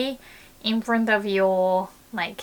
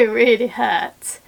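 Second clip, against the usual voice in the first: usual speaking voice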